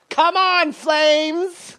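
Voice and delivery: huge high-pitched bellow; booming fan shout, drawn out; arena-filling heckle. Retold or imitated. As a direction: yell it across a whole hockey arena. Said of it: "fill Madison Square Garden with his voice".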